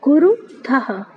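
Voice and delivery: कुरुथः slowly, with the end sounded as "thaha"; कुरुथः spoken slowly, final "ha" clearly audible; visarga as ha. Shown as a demonstration. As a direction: stretch कुरुथः and let the visarga ring out as "ha". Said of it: "तो इसको पढ़ेंगे".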